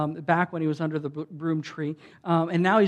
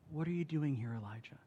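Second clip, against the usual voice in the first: whispered, falling away to almost nothing; still, quiet voice; 2 semitones lower, 13 dB quieter than usual. Acted. God speaks to Elijah at the cave, still quiet whisper. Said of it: "in this still, quiet voice".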